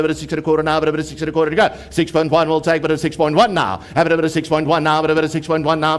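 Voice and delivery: rapid rolling auction chant; auctioneer. Real, not acted. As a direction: rattle off bids in a fast patter.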